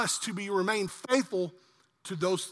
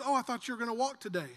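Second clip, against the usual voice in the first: lovingly; 3 semitones higher, 6 dB quieter, faster than usual. Retold or imitated. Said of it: "Tanya just very lovingly says".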